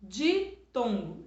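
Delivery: Ditongo said slowly, syllables apart; deliberate teacher voice; slow clear reading. Shown as a demonstration. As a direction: draw out Ditongo for the class. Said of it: "Isso já pode ir estudando".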